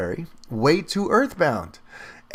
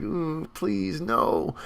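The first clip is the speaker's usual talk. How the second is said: pained groan; 8 dB quieter, much slower than usual. Retold or imitated. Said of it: "was just like".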